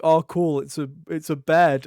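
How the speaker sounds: loud goofy Bulbasaur, excited. Retold or imitated. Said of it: "he's like".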